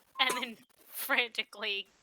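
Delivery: normal talking voice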